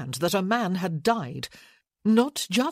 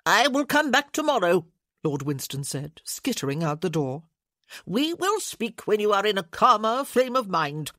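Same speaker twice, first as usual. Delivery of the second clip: higher voice of a puffy little official; a lightly voiced pompous committee man; officious lord pressing his point; fussy lord; 3 semitones higher, 4 dB louder than usual. Lord Winston leaving.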